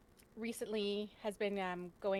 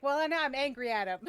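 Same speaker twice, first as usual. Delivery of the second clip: louder, huffy declaration; mock angry mom; 5 semitones higher, 9 dB louder than usual. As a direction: announce the grudge with a huff. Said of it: "my mom actually got really mad".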